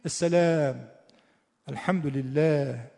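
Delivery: Arab-style fronted a, toward e; drawn-out Arab-accented words. Shown as a demonstration. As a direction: demonstrate Arabic vowels in an Arab accent. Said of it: "شاید عرب اینطوری میگه".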